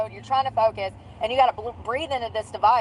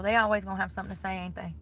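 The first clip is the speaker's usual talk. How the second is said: muttering to self; 2 semitones lower, 7 dB quieter, faster than usual. Real, not acted. Quiet muttered complaint.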